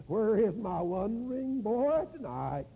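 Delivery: slow, mournful moan of a grieving father; a hammed-up moan, drawn out like a lament.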